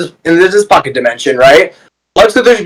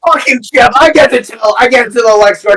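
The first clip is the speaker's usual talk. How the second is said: mock squabbling prisoner; 5 semitones higher than usual. Acts out prisoners fighting to snitch.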